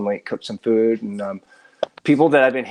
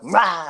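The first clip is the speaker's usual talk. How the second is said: higher-pitched playful "rah" noise; mock roar; 7 semitones higher than usual. Hamming it up for the camera, playful roar. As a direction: act out a hammed-up lunge noise. Acts out own on-camera antics.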